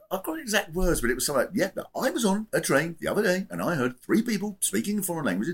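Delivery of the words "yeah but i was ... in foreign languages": lightly voiced impression of a politician; a hint of a politician retelling his complaint; Farage. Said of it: "Good impression".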